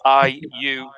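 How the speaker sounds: I U in a Geordie accent, slow. Shown as a demonstration. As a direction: say I U like a Newcastle local, Geordie. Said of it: "said in a Geordie accent".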